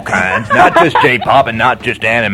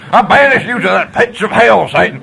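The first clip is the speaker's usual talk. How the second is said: hammy fire and brimstone curse; mock banishing; 5 semitones higher than usual. Banishing the intruder.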